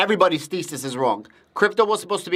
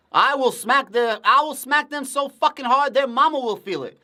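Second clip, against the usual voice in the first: high, heated mock threat, fake outrage; 8 semitones higher than usual. Real, not acted. Streamer ranting at studies, in heated mock outrage. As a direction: rant like you'd really smack them. Ranting about study authors.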